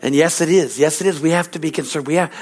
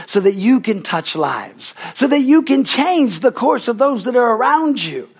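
prophetic preaching. Acted. Preacher speaking as the Lord over the congregation, solemn prophecy. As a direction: proclaim it as God speaking to his people.

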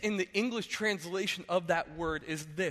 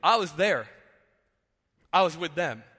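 God declaring; 5 dB louder than usual. Retold or imitated. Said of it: "He goes".

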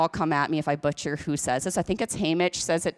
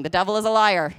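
louder, more forceful declaration; with feeling; 4 dB louder, faster than usual. Shown as a demonstration. Preacher leading the church in a yelled response, with feeling. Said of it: "One more time with feeling".

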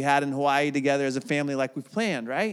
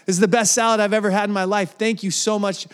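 raised, louder, gushing over the salad; gushing praise; 4 semitones higher, 3 dB louder, faster than usual. Retold or imitated. Husband raving to his wife about a plain salad, gushing. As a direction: rave like it's the best thing ever tasted. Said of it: "he's like".

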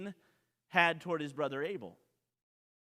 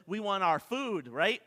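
ordinary delivery

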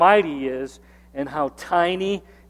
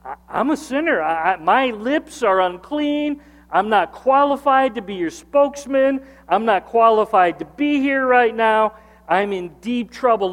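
higher, urgent, stammering confession; mock-panicked sinner; worried Isaiah; 5 semitones higher than usual. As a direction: plead as a man who thinks he is about to die. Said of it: "he's so concerned, he says".

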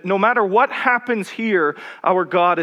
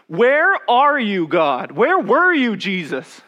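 a slow, louder cry of anguish, pitched higher; anguished plea; 4 semitones higher, 3 dB louder, slower than usual. Retold or imitated. Sisters crying out to Jesus, raised and pleading. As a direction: call out to an absent God in grief. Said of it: "Mary and Martha asking the question".

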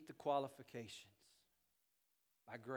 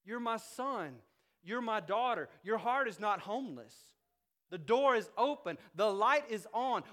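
higher, louder, firm fatherly rebuke; God scolding lovingly; 8 semitones higher, 8 dB louder than usual. Acted. God calling his child back into the house, firm. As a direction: call the child home firmly. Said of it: "God's going".

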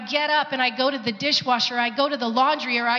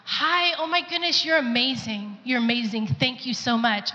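overly gushing. Retold or imitated. Woman gushing over the waitress at her table, overly enthusiastic. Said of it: "people make fun of me 'cause I'm overly like".

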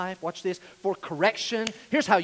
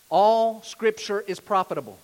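loud, stretched "All", then each word set out firmly; careful, emphatic statement; 3 semitones higher, 7 dB louder than usual. Real, not acted. Preacher giving the note to fill in, careful and emphatic. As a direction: state it deliberately, leaning on "All". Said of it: "I want to say it correctly".

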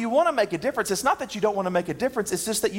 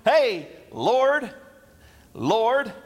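breezy greeting; 2 semitones higher, much slower than usual. Pretend. Preacher imagines himself arriving in heaven, breezy hailing greeting. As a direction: call up to God as if expecting entry. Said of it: "get to heaven and go".

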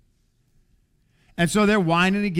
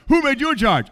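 much higher and louder, a hammed-up outraged challenge; mock outraged yell; 9 semitones higher, 6 dB louder than usual. Preacher mocking the rebels' challenge, hammed-up louder yell. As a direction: lampoon the grumblers screaming at Moses. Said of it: "It's like".

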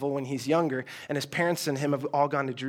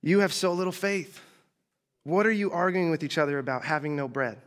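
exasperated Jesus. Retold or imitated. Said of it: "I can just imagine Jesus like".

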